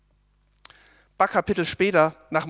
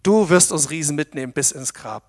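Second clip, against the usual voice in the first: mocking whisper; 4 dB louder than usual. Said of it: "Das flüstert dir der Teufel ein".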